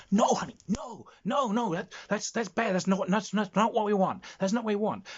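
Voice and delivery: high, loud New Jersey agent laying down the law; New Jersey literary agent. Acted. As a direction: lecture insistently in a high New Jersey accent. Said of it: "it's a New Jersey accent".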